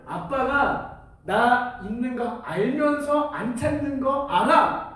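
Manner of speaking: put-on slow, drawn-out child's question; young daughter. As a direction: imitate a little girl quizzing dad. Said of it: "이내 말로는".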